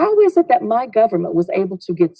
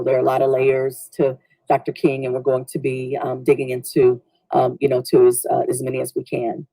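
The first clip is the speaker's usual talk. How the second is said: calm and gentle, easing tension; gracious reply; 5 semitones lower than usual. Retold or imitated. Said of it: "was super gracious".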